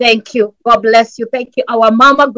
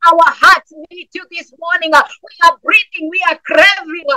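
impassioned preaching prayer, pitched up and pleading; fervent prayer; 3 semitones higher than usual. Real, not acted. Pastor pleading with God for his congregation, fervent preaching prayer. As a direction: cry out to God for urgent help.

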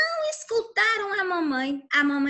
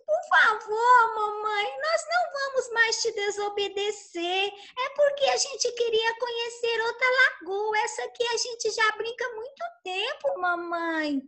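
pleading ducklings; 6 semitones higher than usual. Acted.

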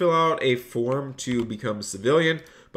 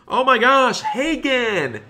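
high, loud delighted squeal at a viewer's donation; excited squeal; 11 semitones higher, 4 dB louder, slower than usual. Real, not acted. Streamer thrilled by a donation, squealing high and loud. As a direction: squeal the donor's name with real joy.

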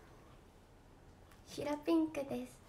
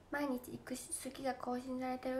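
whisper; 7 dB quieter than usual. Real, not acted. Reads fan comment softly.

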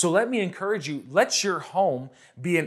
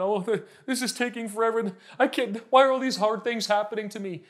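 mock complaining; 5 semitones higher than usual. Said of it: "eyes of this natural realm".

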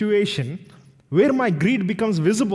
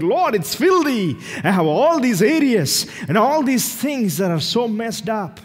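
horrified confession; 4 semitones higher than usual. Acted. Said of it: "It's like".

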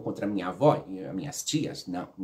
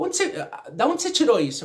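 higher-pitched imitation of a demanding grandmother; questioning grandmother; 10 semitones higher, 4 dB louder than usual. Grandmother asking the child about the cane, imitated sharp questioning. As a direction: imitate a grandmother's startled interrogation.

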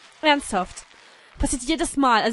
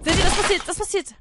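mock menacing shout; 6 semitones higher, 6 dB louder than usual. Announces hell for dislikes.

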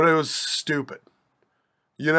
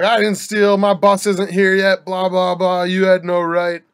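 louder, higher hammed-up ranting; mock angry rant; 4 semitones higher, 6 dB louder than usual. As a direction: imitate a furious guy yelling at the clerk. Man returns cussing clerk out.

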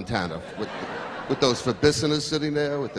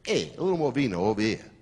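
Italian diner calling; 3 semitones lower than usual. Retold or imitated. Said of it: "this is what you hear".

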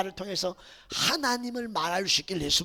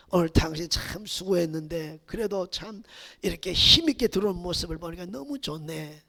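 tender encouragement; 6 semitones lower than usual. Shown as a demonstration. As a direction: speak gently to your tired wife. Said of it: "위로해, 인정해 주는 말로".

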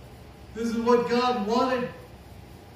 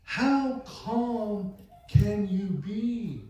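slow, drawn-out marvelling; acted slow disbelief; mock amazement; much slower than usual. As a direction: marvel slowly, imitating an astonished onlooker. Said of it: "they're gonna freak out and say".

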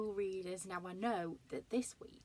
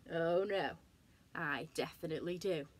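cheeky grin; 2 semitones lower than usual. Acted. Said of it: "grinned Alan".

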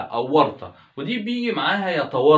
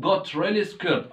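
slow repeat; 4 semitones higher, much slower than usual. Shown as a demonstration. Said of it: "نقولها تاني".

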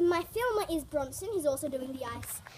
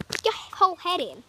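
pushing him, louder, on whole; louder urging; 5 dB louder than usual. Real, not acted. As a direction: call out the dare louder.

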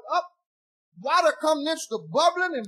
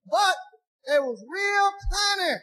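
high, slow shout leaning on real; punchline shout; 5 semitones higher, slower than usual. Acted. Punchline about tiny feet.

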